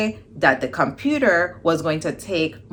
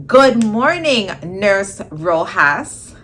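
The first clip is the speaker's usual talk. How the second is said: high, drawn-out sing-song good morning; sing-song greeting; 4 semitones higher, 6 dB louder, slower than usual. Retold or imitated. Friend teasing her awake with a high sing-song greeting. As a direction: stretch Nurse Rojas out slowly, teasing.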